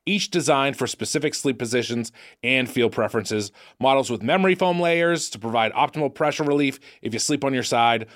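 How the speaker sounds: upbeat sponsor read. Acted. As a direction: sell the mattress cheerfully. Reads sponsor copy.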